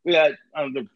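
a hint of indifferent clerk; bored cashier listing. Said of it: "She goes".

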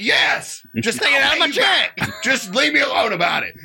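high, pushy mock of a dismissive bandmate; imitating Keith.

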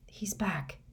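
hushed, weak whisper. A narrator's reading. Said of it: "Harry whispered".

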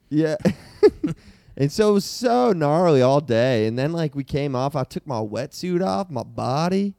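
a hint of a stoned beach bro, unhurried; surfer bro. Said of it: "Let's hear everybody's best surfer, bro".

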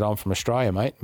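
broad Aussie accent, retold casually; Ocker Australian accent. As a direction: lay on the Ocker accent a little. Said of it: "me strongest Ocker accent".

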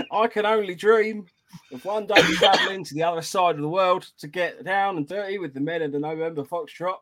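hammed-up Aussie greeting into a review read; botched Australian accent; bad Australian accent. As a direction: read it in a shaky attempt at Australian. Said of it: "how shit he is at Australian accents".

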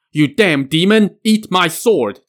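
shout. A narrator's reading. Jiang Ziya attacks the stuck demon with a loud shout. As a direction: yell it as you strike. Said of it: "Jiang Ziya shouted".

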